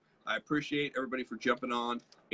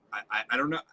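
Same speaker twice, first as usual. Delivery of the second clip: puzzled listener; 3 semitones higher, 3 dB louder than usual. Retold or imitated. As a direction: play a baffled person charmed despite themselves. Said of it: "they'd be like".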